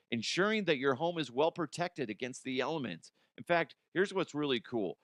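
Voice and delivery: upbeat sponsor read. Acted. Host reading roof sponsor ad, upbeat ad read. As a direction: sell it like a radio spot.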